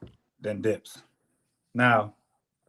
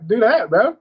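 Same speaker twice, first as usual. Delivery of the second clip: high, incredulous where-is-he; baffled outburst; 13 semitones higher, 7 dB louder than usual. Retold or imitated. Mover looking for the missing helper, incredulous outburst. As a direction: voice jumps up in disbelief. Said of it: "I was like".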